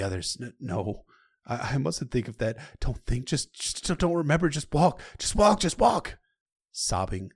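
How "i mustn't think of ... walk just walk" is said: frantic self-urging. Acted. Sam urging himself on, panicking.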